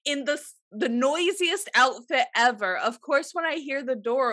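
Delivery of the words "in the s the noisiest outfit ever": higher, slow indignant scolding; mock exasperated. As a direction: stretch it out like a fed-up wife. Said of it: "I was like".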